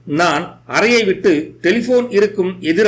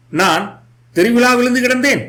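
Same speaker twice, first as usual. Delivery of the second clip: plaintive; 4 semitones higher than usual. Acted. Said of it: "தீனமாக கேட்டாள் அவள்".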